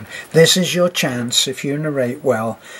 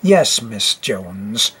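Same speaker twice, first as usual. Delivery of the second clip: slow, low, prim schoolmistress; drawn-out low pupil's reply; stern teacher voice; 5 semitones lower, much slower than usual. Shown as a demonstration. Teacher voice after demo.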